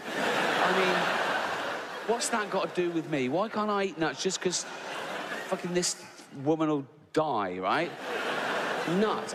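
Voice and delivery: high-pitched indignant protest; fuming. Acted. Comic fuming about being denied his nuts, indignant. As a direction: complain as if personally wronged. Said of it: "I was fuming".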